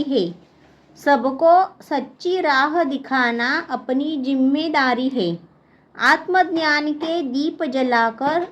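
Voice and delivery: measured classroom verse reading; poem recitation. Acted. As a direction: recite it line by line, pausing after each. Reads the third stanza aloud. (कविता पाठ)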